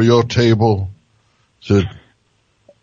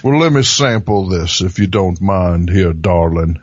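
Southern charm; 3 semitones lower than usual. Retold or imitated. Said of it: "call everyone darling".

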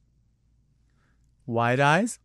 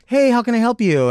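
tire shop clerk; 10 semitones higher, 6 dB louder than usual. Retold or imitated. Tire shop clerk greeting her.

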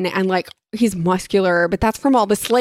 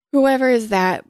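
a touch of feigned languor, pitched up; higher, mock-idle question; yawned question; 4 semitones higher, 3 dB louder than usual. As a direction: lightly act a bored, yawning lady. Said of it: "Buttercup yawned finally".

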